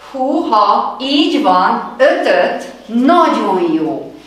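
excited teacher cheering; excited praise. Acted. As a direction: wow the kids with praise.

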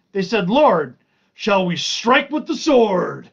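emphatic Bible storytelling from the page; scripture reading. Acted. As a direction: read the passage out, punching key words. Reads scripture aloud to listeners.

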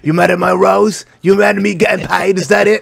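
put-on a light British tough-guy accent, mostly his own voice; hint of a London accent, picking a fight; Jason Statham impression. Friend mocks Jason Statham, lightly putting on a British accent. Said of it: "you got a beef with Jason Statham".

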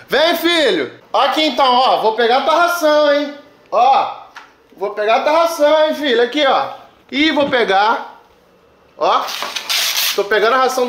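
calling a dog sweetly; talking to the dog. Real, not acted.

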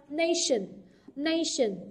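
"nation" stressed on NA, falling away after; first-syllable stress. Shown as a demonstration. Teacher modelling word stress for students, "nation" stressed on NA. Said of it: "trọng âm rơi vào âm tiết thứ nhất".

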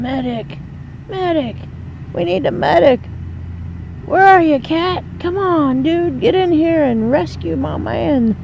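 frantic high yelling for a medic; man down shout. Acted. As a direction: shout for help, voice straining high. Calling for medic in game.

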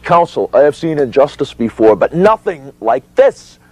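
high, slowing declamation; indignant protest. Retold or imitated. Witness talking through counsel's objection, indignant. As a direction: build to a high, drawn-out finish.

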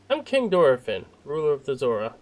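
a hint of regal self-introduction; slightly hammed-up monarch; lightly voiced king. Voices the king's dialogue.

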